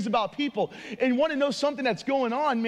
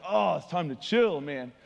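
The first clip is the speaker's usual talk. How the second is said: kicking it back; 5 semitones lower than usual. Pretend. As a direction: let it drop like settling in to chill. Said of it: "he's probably kicking it back like".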